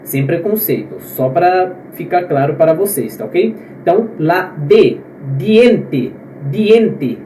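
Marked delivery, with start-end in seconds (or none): 5.4-7.2 diente with d on the tongue tip, no dj; hard dental d in diente. Shown as a demonstration. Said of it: "aquele D na ponta da língua". (diente com o D na ponta da língua)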